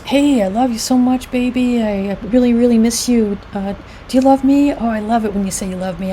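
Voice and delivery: imitated sweet talk; sweet-talking partner. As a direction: coax lightly, as a lovesick partner. Acted partner sweet-talking while away.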